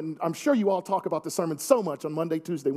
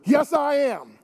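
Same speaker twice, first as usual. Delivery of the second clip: emphatic; 2 semitones lower than usual. Shown as a demonstration. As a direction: declare it proudly and firmly, as a demo. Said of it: "you should say emphatically".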